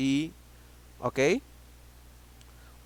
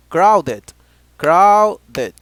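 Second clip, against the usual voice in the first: crowded called out loud and strong; shouted classroom drill; loud drilled word; 2 semitones higher, 14 dB louder than usual. Shown as a demonstration. Teacher drills word aloud.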